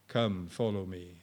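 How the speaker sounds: soft, low, slow invitation; gentle call of Jesus. Pretend. Jesus calling his sheep, softly and slowly. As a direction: invite tenderly. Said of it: "Calling you tonight".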